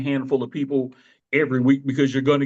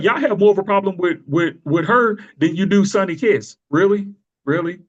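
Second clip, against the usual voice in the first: raised, louder challenge, incredulous; 4 semitones higher, 5 dB louder than usual. Retold or imitated. Podcaster retelling his challenge to complaining callers, incredulous. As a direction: call out their double standard.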